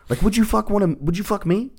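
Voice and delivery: high, pointed rhetorical asking; mock-outraged high question; mock incredulous question.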